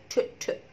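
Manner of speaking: "ت" as a voiceless English ch; ch sound. Shown as a demonstration. Teacher isolating the English CH, "ت" as bare ch. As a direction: release "ت" as a short ch burst. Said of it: "سي اتش في الانجليش بتتنطق".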